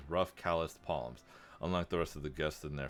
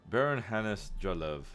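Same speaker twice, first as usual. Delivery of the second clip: "Baron" pushed louder and higher, slowly; stress on Baron; 4 semitones higher, 4 dB louder, slower than usual. Acted. Bored baron introducing himself at a party, stress on Baron. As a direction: lean offhandedly on the word Baron. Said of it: "offhandedly emphasizing the word Baron".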